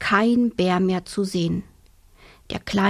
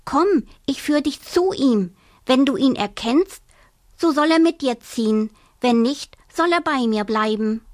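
a hint of a perky hare, higher; eager little hare; lightly voiced hare; 4 semitones higher than usual. Hare tells the mother bear, lightly perky.

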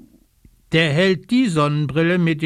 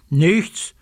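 a touch of flustered denial, slightly higher; 4 semitones higher, 3 dB louder than usual. Acted. Eddie Bär hiding the red thing from Socke, mildly flustered. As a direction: blurt it out to cover up. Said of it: "antwortet Eddie Bär aufgeregt".

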